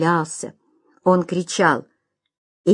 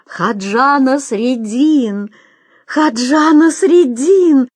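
slow shout rising higher and louder; crowd shouting; 6 semitones higher, 4 dB louder, much slower than usual. Acted. The crowd recognizing Nasreddin, shouting his name. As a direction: call his name out across the square. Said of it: "закричали в толпе".

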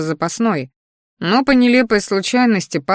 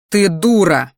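дура stated loud and final; flat statement; 5 dB louder than usual. Shown as a demonstration. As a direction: declare her a fool. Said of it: "Нет, не так".

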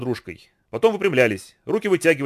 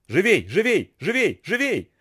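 higher urgent cries; shouting; 6 semitones higher, slower than usual. A narrator's reading. Boatman fighting the whirlpool, urgent shout. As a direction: spur them on through the whirlpool. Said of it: "кричал Фануви".

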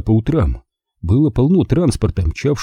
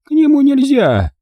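put-on very high, sharp old woman; curt, high-pitched granny's refusal; snapped refusal; 4 dB louder than usual. A narrator's reading. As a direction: cut the boy off, high and final. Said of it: "отрезала она".

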